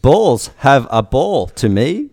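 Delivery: high, loud, slow sing-song bot; lilting mock-female chatbot; Alice voice. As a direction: swoop up and down on each drawn-out phrase. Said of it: "I better do an Alice voice".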